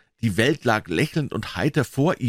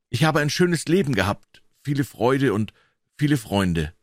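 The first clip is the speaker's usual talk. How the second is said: a lightly voiced, higher weary doctor; dying old doctor; 3 semitones higher than usual. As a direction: speak as a man resigned to death. Dying doctor Lanyon speaks.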